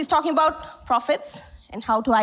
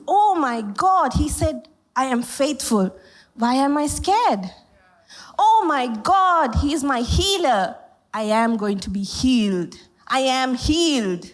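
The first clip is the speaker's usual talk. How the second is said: awed revelation; slower than usual. Retold or imitated. Believer voiced by preacher, awed at being healed. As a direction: say it as a sudden awed realisation.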